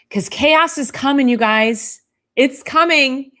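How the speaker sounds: mock warning. Warning chaos is coming.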